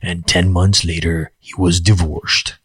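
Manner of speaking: slow dramatic trailer narrator; movie trailer voice. Pretend. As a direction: announce it like an epic movie trailer. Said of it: "It almost sounds like a movie trailer".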